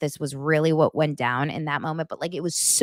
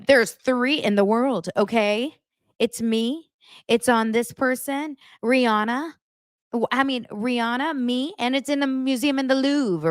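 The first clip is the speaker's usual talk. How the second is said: higher, airy mock-snooty boast; haughty boast; 6 semitones higher than usual. Recapper imitating Bronwyn bragging about her rare jacket. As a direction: brag like only three exist.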